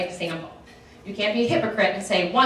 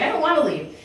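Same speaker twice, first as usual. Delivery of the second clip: mock whiny sadness; 6 semitones higher than usual. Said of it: "I'm like".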